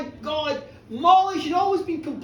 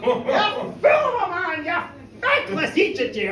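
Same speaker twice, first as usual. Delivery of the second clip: slow, loud scolding; mock fury at her husband; hammed-up rage; 4 semitones higher, 5 dB louder, slower than usual. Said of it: "the rage was on her".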